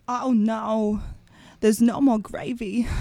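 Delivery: lightly voiced offbeat movie star; odd halting phrasing, a hint of a famous actor; Christopher Walken. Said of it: "She does a sweet, sweet Christopher Walken".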